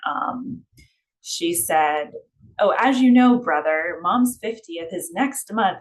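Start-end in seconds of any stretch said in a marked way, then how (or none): 2.6-5.8 stilted, unnatural line. Shown as a demonstration. Writing teacher mocks a clunky line of sibling dialogue, hammed-up stilted delivery. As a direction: overact the clunky exposition line. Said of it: "it just sounds kind of, like, unnatural".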